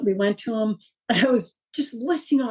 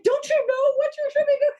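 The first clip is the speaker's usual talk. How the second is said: mock exasperation. Exasperated parent retold.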